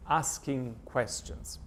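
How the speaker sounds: "asking questions" slowed right down for weight; capitalized emphasis. Acted. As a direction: read "asking questions" slowly, as if written in capitals. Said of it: "You see the capital letters in asking questions?".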